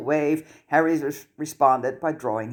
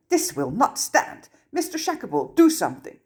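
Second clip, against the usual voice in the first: rising panic; 10 semitones higher than usual. A narrator's reading. Minister panics, demands action.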